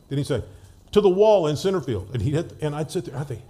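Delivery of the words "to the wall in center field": called out loud and high; calling out. Retold or imitated. Teammate calling his shot, loud call. Jimmy calls his hit.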